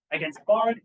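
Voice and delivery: quoted senator's retort. Acted. Lecturer quoting a senator's rebuttal, forceful. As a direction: put some force behind the rebuttal.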